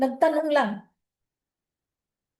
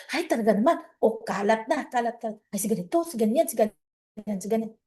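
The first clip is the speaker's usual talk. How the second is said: gossip spreader; 4 semitones lower, 3 dB quieter, faster than usual. Acted. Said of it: "pag may nasagap silang marites".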